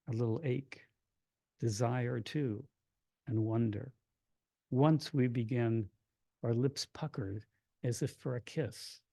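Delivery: measured verse, pausing after each phrase; poetry reading. Acted. Poet reading a definition poem aloud, measured and deliberate. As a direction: read it as a poem, letting endings fall away.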